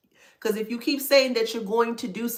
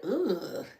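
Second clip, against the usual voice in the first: disgusted; 2 semitones higher, 4 dB quieter than usual. Retold or imitated. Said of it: "They're like".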